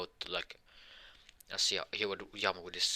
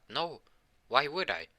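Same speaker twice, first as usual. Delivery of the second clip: indignant higher refusal; 7 semitones higher, 3 dB louder than usual. Acted.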